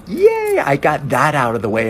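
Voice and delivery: very high, loud yay; squealing relief; relieved cheer. Retold or imitated. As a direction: celebrate being free. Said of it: "she's like".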